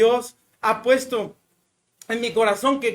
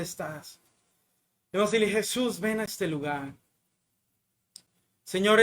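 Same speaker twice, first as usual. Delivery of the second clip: prayer. Acted. Leads a prayer.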